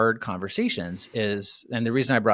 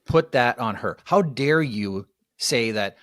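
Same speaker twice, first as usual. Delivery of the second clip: indignant scold; 3 dB louder, slower than usual. Retold or imitated. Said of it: "That's what I told him".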